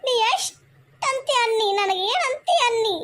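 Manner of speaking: crying as she answers back; hurt wife sobbing out her reply; tearful protest. Acted. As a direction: voice catching on tears. Taunted woman breaks down.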